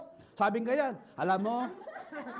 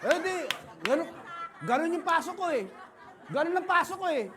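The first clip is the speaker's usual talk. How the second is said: laughing; 7 semitones higher, 4 dB louder than usual. Real, not acted. Laughing at his own approach.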